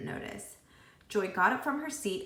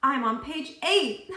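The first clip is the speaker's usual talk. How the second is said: slow, louder gloating brag; triumphant; 6 semitones higher, 7 dB louder, slower than usual. A narrator's reading. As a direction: savor the win. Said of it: "laughed Todd triumphantly".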